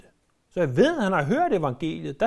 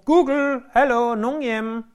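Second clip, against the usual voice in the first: shouting at Google; 4 semitones higher than usual. Retold or imitated. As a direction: call out to the gadget as if nobody's home. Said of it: "så kan du råbe". (spøgefuldt råb til Google-højttaleren)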